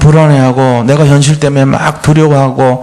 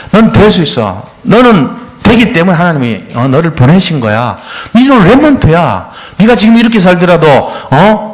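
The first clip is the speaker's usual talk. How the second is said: earnest, uplifting encouragement; encouraging; 4 semitones higher than usual. Shown as a demonstration. Parent encouraging a hopeless child, earnest. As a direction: pour hope into the child. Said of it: "이러면서 끝까지 복음적으로 힘을 주라는 거예요".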